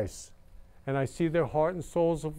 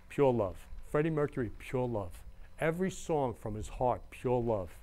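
tender; 4 semitones lower, 6 dB quieter than usual. Real, not acted. Tender tribute to a singer.

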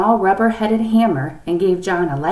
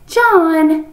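high, loud, drawn-out name; warning tone; 11 semitones higher, 8 dB louder than usual. A narrator's reading. Father warning his son to confess everything, stern. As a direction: call the name as a parental warning. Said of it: "his son recognized the tone".

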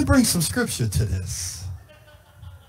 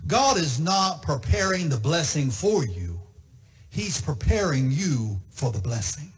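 1 soft repeat; 7 semitones lower, 5 dB quieter than usual. Shown as a demonstration. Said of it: "I don't know if I told you this".

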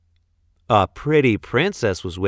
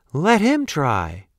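commanding; 4 semitones higher than usual. Acted. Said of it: "commanded the princess".

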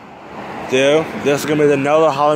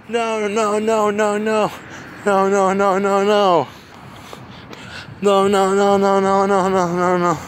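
higher, rapid string of frantic nos; panicked no; 5 semitones higher than usual. Real, not acted. Player begs the monster away, panicked higher nos. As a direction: beg it to stop, panicking.

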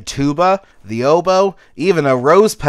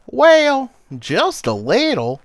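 shy; 10 semitones higher, slower than usual. Acted. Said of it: "She smiled kinda shyly".

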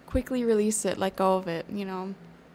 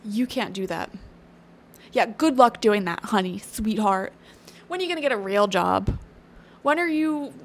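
mocking naysayer; 5 dB louder than usual. Voicing naysayers mocking her dreams.

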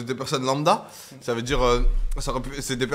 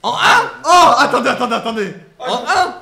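surprised; 7 semitones higher, 7 dB louder than usual. Real, not acted. Shocked at losing the count.

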